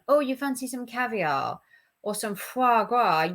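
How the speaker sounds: mock-posh offer, dwelling on "foie gras"; posh emphasis. Vlogger imitates offering someone fancy food, posh emphasis on "foie gras". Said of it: "you put an emphasis on the word".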